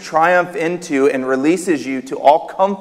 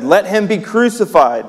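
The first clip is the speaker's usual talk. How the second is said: higher, mildly raised crowd cry; crowd shout; 6 semitones higher than usual. Acted. Crowd answering Pilate, mild shout. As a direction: call it out like a demanding crowd. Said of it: "they shouted all the more".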